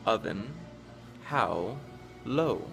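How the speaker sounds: slow, measured poem reading with careful word-by-word pauses; poem recitation. Acted. Reading the poem Chaos to show tricky English pronunciation, measured recitation. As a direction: recite each rhyming word slowly and distinctly.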